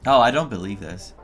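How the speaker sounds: normal talking voice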